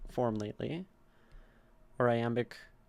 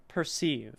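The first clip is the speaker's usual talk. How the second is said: Perceive said per-SEEVE; stress on second syllable. Shown as a demonstration. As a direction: land the weight on the -ceive of Perceive. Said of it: "then sieve is where we land".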